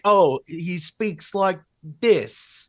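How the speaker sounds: a slow go at James's English accent; lightly imitated English accent; attempted James accent. Shown as a demonstration. Asked to show off his James voice, English accent. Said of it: "Can you do a James accent?".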